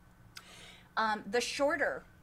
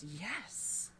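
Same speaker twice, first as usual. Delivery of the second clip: solemn; 7 dB quieter, slower than usual. Acted. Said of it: "the taller one says".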